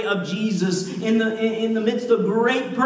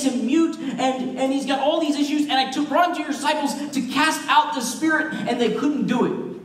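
lightly voiced pleading father, pitched higher; desperate dad; 5 semitones higher than usual. Dad brings his afflicted son to Jesus, mild desperation. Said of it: "a dad in desperation, speaks up".

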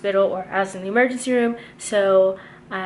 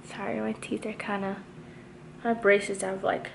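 talking with finger in mouth; finger pulling lip down. Real, not acted. Seen 1: Repeatedly pulls lower lip down with finger, showing braces while talking.

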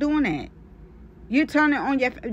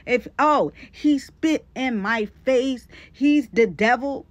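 mock dramatic; 3 semitones higher, 5 dB louder, slower than usual. Mocking her dramatic complaints.

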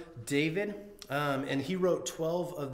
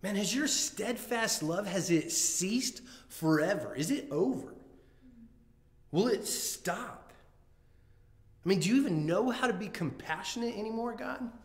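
higher, pleading questions to God; brutally honest questions; 4 semitones higher than usual. Retold or imitated. Retelling the psalmist doubting God, higher pleading voice. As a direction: ask God why, raw and pleading. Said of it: "he asks God these brutally honest questions".

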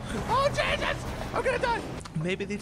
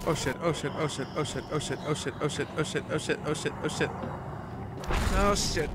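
panicked muttering; 5 semitones lower, faster than usual. Real, not acted. Gamer mutters in terror while sneaking.

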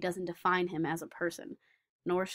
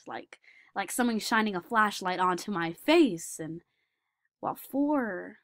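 gentle savant character; 3 semitones higher, 3 dB louder than usual. Acted. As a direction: speak as a shy savant describing his world. Performer plays Daniel Tammet.

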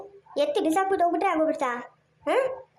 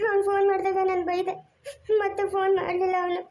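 crying as the sentence ends; tearful; 2 semitones higher than usual. Acted. Father explaining to Sangeetha why he stopped calling, in tears. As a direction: let the tears come.

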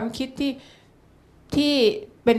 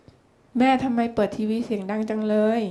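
gentle frank question; slower than usual. Retold or imitated. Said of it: "เราพูดออกไปตรงๆว่า".

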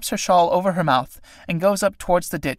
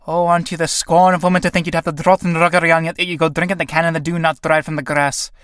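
crying out angrily; 2 semitones higher, 4 dB louder than usual. Acted. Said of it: "crying out angrily".

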